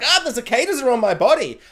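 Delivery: playful fake freak-out; mock panic. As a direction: squeal it like a character in a horror show. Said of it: "everybody was just like".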